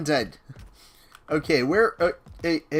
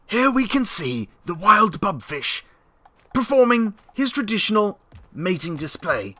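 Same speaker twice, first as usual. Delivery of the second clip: hushed wildlife narrator; nature documentary. Pretend.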